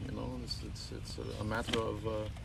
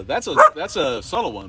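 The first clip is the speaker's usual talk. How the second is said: put-on Canadian accent; 9 dB louder than usual. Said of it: "Canadian accent".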